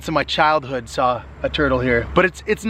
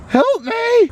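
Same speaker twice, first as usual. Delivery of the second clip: high mock cry for help, louder; sinking in quicksand; 4 dB louder than usual. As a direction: playfully yell help like you're sinking. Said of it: "you pretend you're sinking in quicksand".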